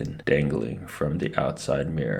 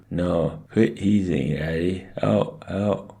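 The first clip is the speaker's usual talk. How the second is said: higher muffled wail, growing more urgent; muffled protest; 4 semitones higher, 3 dB louder, slower than usual. A narrator's reading. Stuck boy begs Dad to quit teasing, muffled protest. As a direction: protest through frozen lips.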